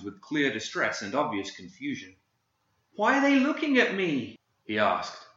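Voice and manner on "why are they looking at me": put-on high, frightened little boy voice; panicked child. Confused boy asking about the staring men, rising panic. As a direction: ask it as a lost, scared child. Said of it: "the panic mounting within him".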